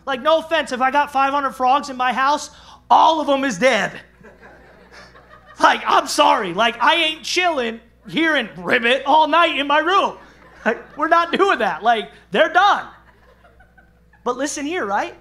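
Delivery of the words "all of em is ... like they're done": loud, laughing declaration; real laughter at the frog idea. Real, not acted. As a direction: laugh through the bravado. Laughing at killing frogs.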